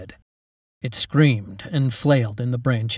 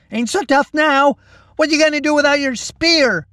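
high, loud mocking yell; taunting shout; 7 dB louder than usual. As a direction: jeer at the goblin. Mac taunting the disarmed goblin.

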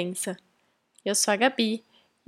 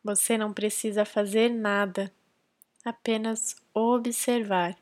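calm, measured meditation guidance with long pauses; guided meditation. Real, not acted. Podcast host leading listeners into silent breath concentration, guided meditation. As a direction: guide them gently into focus, leaving space between phrases.

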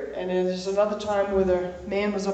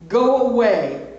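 demon shout; 3 semitones higher, 7 dB louder, slower than usual. Acted. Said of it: "He cried out at the top of his voice".

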